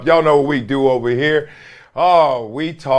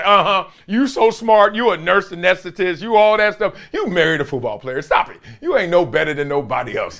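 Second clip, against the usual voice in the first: teasing wife; 4 semitones higher than usual. Retold or imitated. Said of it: "I always call her groupie, say".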